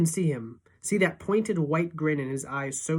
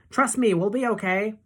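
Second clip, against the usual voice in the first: urging shout; 6 semitones higher, 5 dB louder than usual. A narrator's reading. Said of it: "he's shouting".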